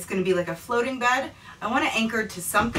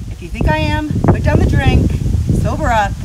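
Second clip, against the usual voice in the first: louder, playful mock-stern telling-off; mock scolding; 5 semitones higher, 6 dB louder than usual. To viewers who think he's a pro, mock-stern scolding. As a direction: scold the viewers like a joking drill sergeant.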